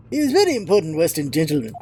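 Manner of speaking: put-on lightly done Russian accent, gruff sailor; a proud, touchy Russian seaman. Sailor Stroganoff scolding the visitors, light Russian accent.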